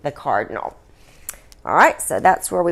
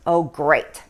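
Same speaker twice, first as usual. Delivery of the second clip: grumbled; 3 semitones lower than usual. Acted. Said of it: "grumbled the Queen".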